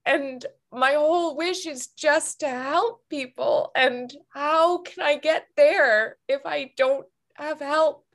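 real tearful crying while speaking; ugly crying. Real, not acted. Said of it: "I'm ugly crying".

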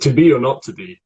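"to be or not to be" with each T sounded; T's pronounced. Shown as a demonstration. Coach answering student's test line, T's pronounced. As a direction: keep the T in "to" and "not". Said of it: "we would say the T's on that".

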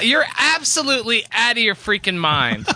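laughing mock outrage. Real, not acted. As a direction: scolds through a laugh.

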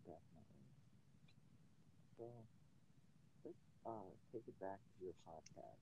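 muffled, like talking underwater; garbled bad-connection audio; underwater gurgling voice. Real, not acted. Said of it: "it sounds like you're underwater".

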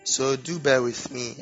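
sore throat voice; talking through a sore throat; swollen tonsils voice. Real, not acted. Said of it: "my voice is a bit funny today".

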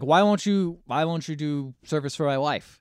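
mildly indignant, pushed on the first words; indignant demand. Retold or imitated. Jordan demands service for his wife, mildly indignant.

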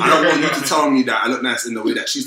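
laughing while talking. Real, not acted. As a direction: talk through laughter. Laughing through the line.

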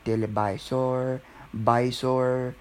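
"televisor" and "visor" with B for V; Filipino-accented "televisor" and "visor", starting visor on B. Shown as a demonstration. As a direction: say "televisor, visor" as "telebisor, bisor". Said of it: "is B instead of".

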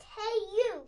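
loud, high challenge; grouchy ladybug. A narrator's reading. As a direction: shout up at the elephant. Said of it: "said the grouchy ladybug".

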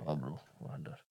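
mock street guy. Playing along with the slang joke, a low street voice.

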